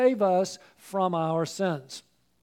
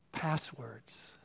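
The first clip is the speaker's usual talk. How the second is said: dramatic whisper; 9 semitones lower, 12 dB quieter than usual. Acted. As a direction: drop to a hushed whisper on the last word. Preacher drops voice on list's end.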